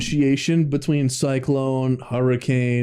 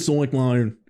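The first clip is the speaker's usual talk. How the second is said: exaggerated Australian 'cyclone', vowels bent to 'soy-kline'; hammed-up Australian mimicry; mock Australian accent. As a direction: parody her Australian-sounding 'cyclone'. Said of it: "She's Australian all of a sudden".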